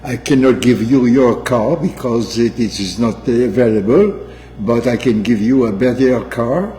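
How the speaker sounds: lightly put-on French accent, clerk at the counter; mock French accent. Mother imitating French car rental clerk, light French accent. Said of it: "your French accent".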